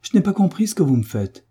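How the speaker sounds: put-on high, angry girl's outburst; an indignant schoolgirl snapping at the teacher. A narrator's reading. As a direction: protest hotly. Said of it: "dit-elle avec colère".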